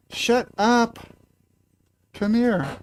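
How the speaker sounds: telling the cat to hush, high and playful; high scolding. Real, not acted.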